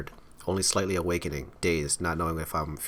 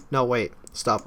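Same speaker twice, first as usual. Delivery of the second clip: shouting; 4 semitones higher, 4 dB louder, slower than usual. Acted. Wife swinging the sledgehammer.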